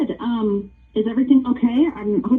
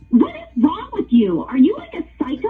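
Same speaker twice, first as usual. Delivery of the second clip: higher, outraged scolding; 6 semitones higher than usual. Real, not acted. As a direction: let the disbelief boil over. Outraged owner of punched parrot.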